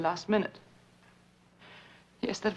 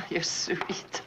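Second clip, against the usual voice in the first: whisper; 3 semitones lower, 4 dB quieter than usual. Acted. Tender aside on the phone.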